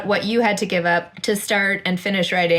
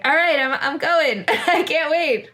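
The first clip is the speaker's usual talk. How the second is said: eager go-getter; 8 semitones higher, slower than usual. Pretend. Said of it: "I'm like".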